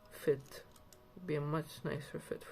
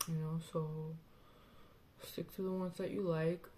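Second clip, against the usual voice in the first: lisping around a retainer. Real, not acted. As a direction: talk with something in your mouth. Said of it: "Sorry for the lisp because of the thing in my mouth".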